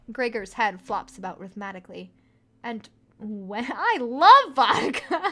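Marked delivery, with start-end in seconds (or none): 3.7-5.2 mock Russian accent. Player mocks Russian stereotype.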